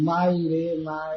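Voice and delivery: slow, drawn-out imitation of crying; mock wailing. Sati crying at home for her mother, mock wailing. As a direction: stretch it out as a mild pretend wail. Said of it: "घर में रोना चालू करती थी".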